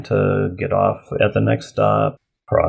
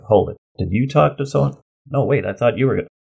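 higher-pitched, mildly puzzled double-check; mock confusion; 5 semitones higher than usual. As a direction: act out a sudden planning mix-up. Acting out a planning mix-up.

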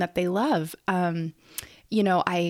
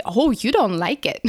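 put-on gentle child-directed voice; 4 dB louder than usual. Shown as a demonstration. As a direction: coo it to the little one. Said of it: "You can say".

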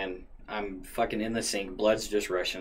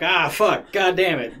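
higher, louder cursing through laughter; laughing curse; 8 semitones higher, 8 dB louder, slower than usual. Retold or imitated. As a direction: swear it while laughing at yourself. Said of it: "internal, I'm like".

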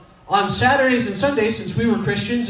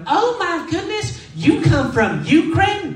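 high, slow, gushing small-town amazement with a laugh; wide-eyed Texan gasp at the foreign waiter; amazed Texan customer; 9 semitones higher, slower than usual. Retold or imitated. Gushing customer marvels at the Ukrainian waiter, high and amazed. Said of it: "they're like".

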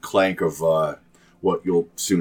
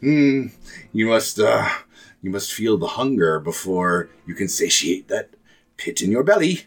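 witch coaxing the girl, lightly voiced; a hint of a crooning old hag; creaky old woman; 3 semitones higher than usual. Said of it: "like a, a creaky old woman's voice".

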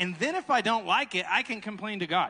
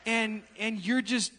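slow awkward take; slower than usual. Shown as a demonstration. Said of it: "that didn't sound good".

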